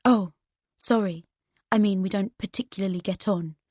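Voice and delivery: lightly put-on posh English voice; a hint of posh English, teasing; mock posh English accent. To Daniel, mocking his accent: light posh English. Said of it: "I put on his posh accent".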